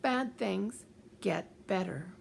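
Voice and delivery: slow, word-by-word mantra; measured, insistent self-talk; broken-record repetition. Shown as a demonstration. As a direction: repeat it slowly and deliberately, like a broken record. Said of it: "keep talking back like a broken record".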